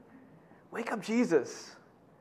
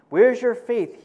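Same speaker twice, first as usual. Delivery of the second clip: tag; 6 semitones higher, 8 dB louder, slower than usual. Retold or imitated. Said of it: "he asked his disciples".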